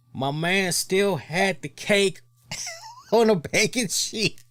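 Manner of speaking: high, slow, laughing in disbelief; can't believe the cake came on a baking sheet. Real, not acted. Incredulous retelling with laugh.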